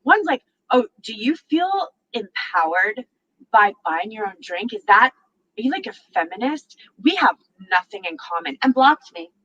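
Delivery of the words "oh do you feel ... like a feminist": lightly voiced condescending guy; mocking guy. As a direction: mimic a smug man mocking her. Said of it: "the men are like".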